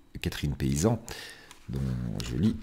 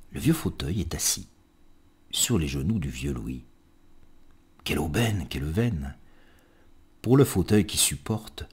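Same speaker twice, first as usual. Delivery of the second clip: lilting recital with rhymes set apart; poem reading; 2 semitones lower than usual. Acted. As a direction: tell it as a fond little verse portrait. Reads a poem aloud. (lecture de poème chantante et posée)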